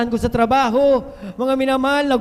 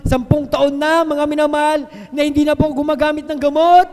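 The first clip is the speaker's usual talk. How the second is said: loud, rising testimony with hallelujahs; fervent preaching; 3 semitones higher, 6 dB louder than usual. Acted. Preacher praising God to the congregation, loud and fervent. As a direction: lift it up like a revival preacher.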